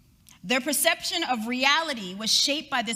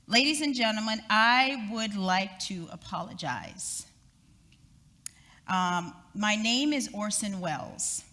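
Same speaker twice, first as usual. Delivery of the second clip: apologetic announcer. Retold or imitated. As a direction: calmly confess the hoax to listeners. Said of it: "another voice came on the radio".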